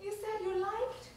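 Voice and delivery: quiet tender appeal; soft pleading. Acted. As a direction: coax him gently back. Wife pleads softly.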